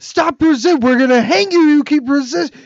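hammed-up lynch mob cop; mocking brutal cop. Mocking a cop who hangs a resisting suspect, hammed-up shouts.

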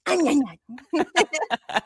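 high playful sing-song ay ay ay; teasing ay ay ay. Retold or imitated. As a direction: tease him like that lady. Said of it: "that lady that went".

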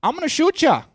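loud, high cop barking a warning; bellowed, drawn-out order from a cop. Acted. Cop warning a rowdy Jawa, loud and commanding. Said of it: "and the cop's like".

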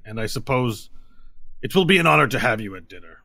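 lightly voiced lizard warrior, stiffly formal; halting, grudging courtesy in character; Brahmi. Lizard warrior bids visitors farewell until dinner, stiff and grudging. Game master plays departing lizard.

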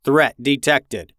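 slow, even robot alarm voice. Acted. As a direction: announce it like a machine alarm. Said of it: "the awful robot voice blared from his speaker".

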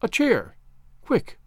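high-pitched, short urgent request; urgent plea. A narrator's reading. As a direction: ask for help at once, pitched high. Faint woman urgently asks for chair.

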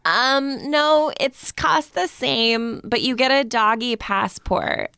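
put-on high, slow baby-talk voice; dog-owner impression. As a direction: answer as the doting dog lady. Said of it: "ask me questions as her".

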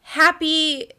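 imitating Carly. Podcaster acting out Carly's awkward greeting, tentative. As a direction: pause between words and lift the ending. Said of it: "Carly says".

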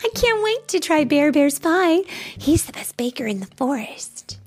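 put-on high-pitched eager child-story voice. A narrator's reading. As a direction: look forward to it brightly. Lulu eagerly awaits the pie.

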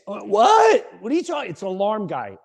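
high-pitched, mildly startled reaction; startled disbelief. Retold or imitated. Comic retelling how he heard about the alarm guy, startled. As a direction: react baffled, voice jumping up.

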